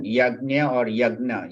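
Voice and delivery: "yajna" and "yagna" as two variant sayings; alternate pronunciations. Shown as a demonstration. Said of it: "it's just a different pronunciation".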